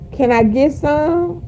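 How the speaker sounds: teasing impression of asking permission; mock pleading. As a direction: draw it out like a mock request for permission. Woman asking Big Daddy permission.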